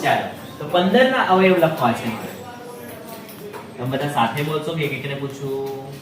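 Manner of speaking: normal talking voice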